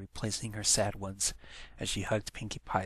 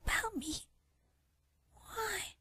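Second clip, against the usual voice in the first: high, bubbly pony voice, slowing on the last words; cheerful exclaim; 6 dB louder, slower than usual. A narrator's reading. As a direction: chirp it out, delighted and slow at the end. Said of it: "exclaimed cheerfully".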